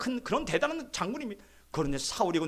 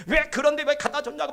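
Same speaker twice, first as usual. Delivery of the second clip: higher-pitched mock outburst, moderately raised; imitated yelling protest; 6 semitones higher, 4 dB louder than usual. Children confronting their father over the cat, imitated high protest. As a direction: protest like upset children telling off a parent. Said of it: "막 소리소리 치는 거예요".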